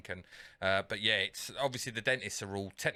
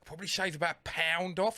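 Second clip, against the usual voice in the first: mock-regretful company voice; imitated sales agent; 8 semitones higher than usual. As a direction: play a stalling call-centre agent. Retold company agent stalling on deal.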